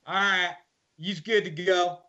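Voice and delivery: a hint of the Kentucky guard; lightly voiced Kentucky guard. Guard dismissing the inmate in a light Kentucky drawl. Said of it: "thick Kentucky drawl".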